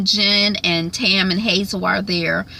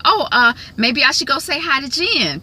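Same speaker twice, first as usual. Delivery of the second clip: higher, faltering mock hesitance; hesitant, awkward Jackie; 7 semitones higher than usual. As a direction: imitate Jackie's awkward stalling. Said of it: "But she's like".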